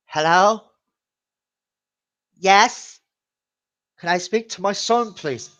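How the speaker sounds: high, loud prank grandma voice. Retold or imitated. Prankster phones his mom as grandma, grandma voice. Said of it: "me doing the grandma voice".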